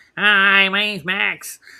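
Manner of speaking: exaggerated nasal voice. Showing how not to talk, in an exaggerated nasal voice. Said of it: "stop being so nasally ... don't go like this".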